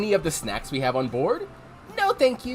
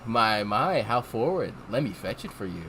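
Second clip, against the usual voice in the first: sultry lady; 8 semitones lower than usual. Acted. Rouge voiced low.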